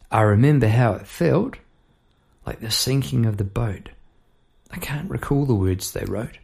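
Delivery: measured lines with pauses between; spoken-word poetry. Acted. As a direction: recite a chorus as verse. Recites own chorus.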